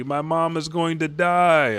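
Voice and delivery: high-pitched mock wail; imitated tearful kid. Kid fearing for mom's life, tearful. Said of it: "All these kids are in tears".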